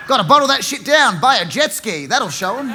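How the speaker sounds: mock Aussie bloke. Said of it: "mocking Aussie men's attitude".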